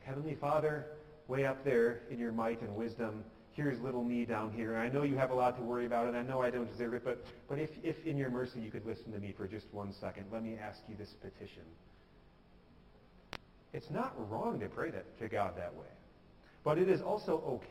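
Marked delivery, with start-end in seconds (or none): 0.0-11.6 distant formality. Acted. Little me praying up to Heavenly Father, formal and meek. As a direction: imitate a timid petitioner apologising for asking. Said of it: "distant formality".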